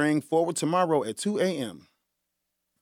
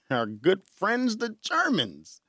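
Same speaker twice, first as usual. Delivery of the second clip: teasing introduction; 5 semitones higher, 3 dB quieter, slower than usual. Acted. Mock-fond introduction of the Germans.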